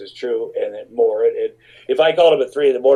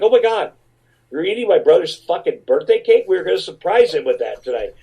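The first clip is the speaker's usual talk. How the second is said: mock outraged impression of a singer; 4 semitones higher than usual. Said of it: "She's like".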